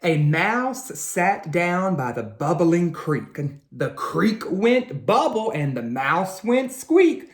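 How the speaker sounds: put-on slow, lilting read-aloud to children; slow storybook narration for kids; story narration. A narrator's reading. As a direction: tell it like a bedtime picture book. Reads picture book aloud.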